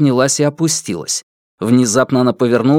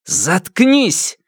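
mild shout; 7 semitones higher than usual. Acted. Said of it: "закричал Ян Лэ".

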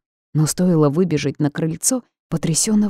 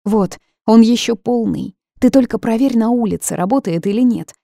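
put-on a brave little girl trying to help; young daughter; 6 semitones higher, 5 dB louder than usual. A narrator's reading. Alinka hands her mother the spray, higher and earnest. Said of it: "проговорила Алинка".

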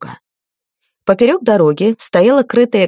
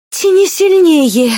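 higher, slow, spiteful hiss; vicious hiss; 10 semitones higher, 4 dB louder, slower than usual. A narrator's reading. Lady hisses at her page to pull harder, vicious hiss. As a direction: spit the order out viciously. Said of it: "злобно зашипела дама".

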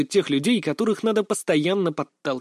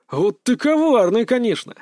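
fake admiration; 7 semitones higher, 5 dB louder than usual. A narrator's reading. Coach mocking a student before the class, faked admiration. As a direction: praise him with exaggerated fake awe. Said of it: "делано восхитился я".

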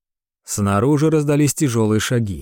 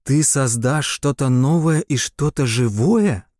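amazed; 3 semitones higher than usual. Acted. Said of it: "от удивления раскрылся рот".

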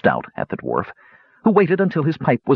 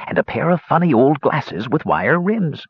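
put-on old dwarf voice; 6 semitones higher than usual. Dwarf hermit speaking.

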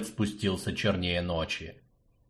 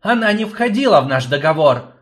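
furious; 5 semitones higher, 6 dB louder than usual. Acted. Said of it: "яростно бросил".

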